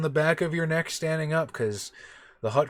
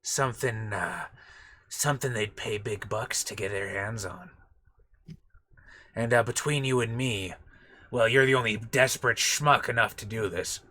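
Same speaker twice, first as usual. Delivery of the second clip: bad Watto voice. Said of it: "You did a bad one".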